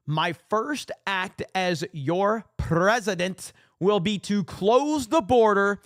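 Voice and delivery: hammed-up campaign promise read out slowly; reading Trump's post. Host reading the president's post to viewers, mock rally voice.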